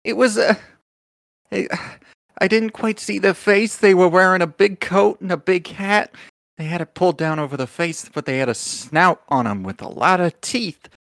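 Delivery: high little mouse voice, nervous; a small creature unsure of what it saw; timid mouse messenger. Acted.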